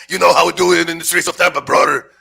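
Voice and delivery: fast wrestler promo voice; Macho Man impression. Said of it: "Macho Man Randy Savage".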